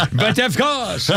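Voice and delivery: put-on laughing, in a French accent; a laughing mock French "But of course". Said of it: "How can you laugh in a French accent".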